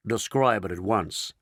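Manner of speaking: ordering. Acted. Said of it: "ordered ground control in Houston".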